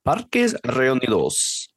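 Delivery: Spanish accent, slow and deliberate. Shown as a demonstration. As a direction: roll it out the Spanish way. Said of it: "That's really good".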